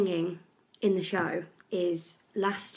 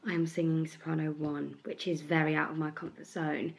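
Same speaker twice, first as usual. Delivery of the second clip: worn, slightly bunged-up voice; tired voice. Real, not acted. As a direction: speak with a tired, stuffy throat. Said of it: "really tired voice".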